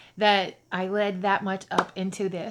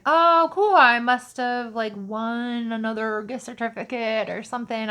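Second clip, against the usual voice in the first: 1 excited guess; 2 semitones higher, 7 dB louder than usual. Retold or imitated. Pleased guess about the envelope.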